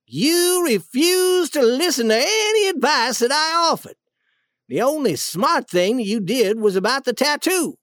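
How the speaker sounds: understated acted reproach; accusing. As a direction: lay the blame squarely on them. Duke blames the king.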